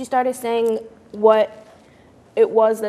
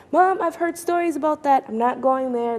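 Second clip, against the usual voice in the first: put-on teen refusal; 5 semitones higher than usual. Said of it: "I'm just like".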